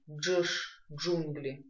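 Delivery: Джш opening like джунгли; match the fused d-zh in Джш, джунгли; как в «джунгли». Shown as a demonstration. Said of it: "произносим как в слов". (слитное «дж» в «Джш, джунгли»)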